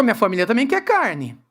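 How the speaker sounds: low start, whiny swoop on the last words; mock tearful complaint. Another father joins the complaint to the leader, mock tearful. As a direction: imitate another father bleating his complaint. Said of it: "chega pra você e chorando".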